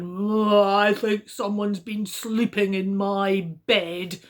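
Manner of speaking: a touch of a puzzled father bear; Daddy Bear. Acted. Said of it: "Daddy Bear looked at his bed and said".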